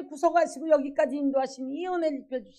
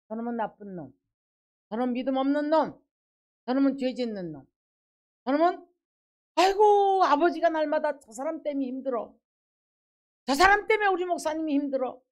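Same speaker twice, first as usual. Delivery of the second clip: a faint sneer building to a fussy sigh; judging churchgoer. Retold or imitated. Pastor mocking a judgmental member griping about a sinner, building mock grumble.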